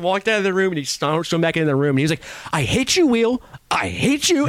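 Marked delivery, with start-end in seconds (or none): 2.5-4.5 high mock tantrum at the wheel. Johnny storming back in at the wheel, high hammed-up tantrum. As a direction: shriek it like a hammed-up toddler fit.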